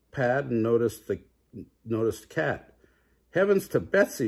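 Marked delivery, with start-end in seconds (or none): 3.3-4.3 higher surprised exclamation; exclaimed. A narrator's reading. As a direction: gasp out in shock. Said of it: "she exclaimed".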